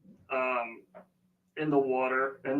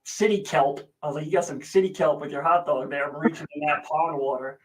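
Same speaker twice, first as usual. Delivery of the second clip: louder teasing dad tone; mock-gross teasing, louder; 4 dB louder than usual. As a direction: tease the germaphobe daughter. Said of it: "I'm like".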